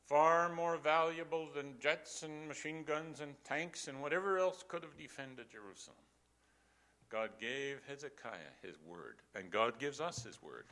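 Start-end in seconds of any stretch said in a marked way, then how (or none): 0.1-6.0 emphatic preaching. Real, not acted.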